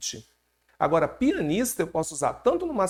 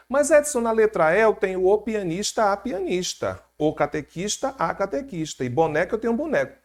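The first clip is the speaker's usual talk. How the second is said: mock student objection; 5 semitones higher than usual. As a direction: play a confused student arguing. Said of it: "Mas não é isso que o exercício quer".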